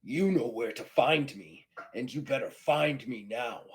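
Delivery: forceful, emphatic dare; challenging Klingon. Acted. Klingon turning to his rival before leaving, forceful dare. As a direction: throw down the challenge firmly.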